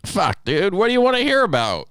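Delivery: very high-pitched, quickening excited outburst; mock enthusiasm. Replying to co-host's request for truck stop stories, mock-excited squeal. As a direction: throw the question back with hammed-up excitement.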